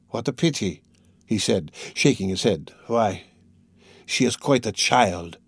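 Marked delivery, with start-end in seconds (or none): 0.1-0.8 put-on sorry for the girl; compassionate. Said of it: "genuine compassion". 2.9-5.4 put-on sorry for the girl; compassionate. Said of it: "genuine compassion".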